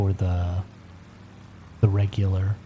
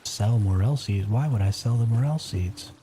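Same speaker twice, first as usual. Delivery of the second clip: library whisper. Real, not acted. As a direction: whisper so the house stays asleep. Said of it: "I am whispering".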